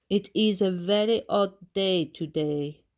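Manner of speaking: a lightly voiced French maid; tired servant remark. A narrator's reading. Maid Edith speaking.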